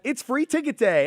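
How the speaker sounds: high, slow, cheery clerk; chirpy staff voice. Retold or imitated. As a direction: sing it out like a cheerful ticket clerk. Staff voice retold.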